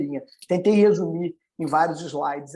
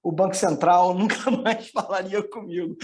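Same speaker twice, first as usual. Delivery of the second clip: laughing; 3 semitones higher than usual. Real, not acted. Jokes about Central Bank shunning him.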